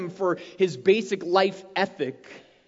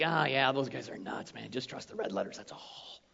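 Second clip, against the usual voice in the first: mock casual Jesus; 9 semitones lower, 11 dB quieter than usual. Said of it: "It's not like Jesus is like".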